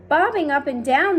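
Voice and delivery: high loud startled echo; cried in alarm. A narrator's reading. The friends react to the ladybug, alarmed cry. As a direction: echo her words in shock. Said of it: "they cried".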